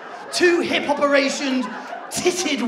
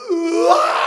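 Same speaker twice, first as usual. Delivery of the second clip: put-on toddler wail; 3 semitones higher, 5 dB louder than usual. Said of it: "he just looked at it like".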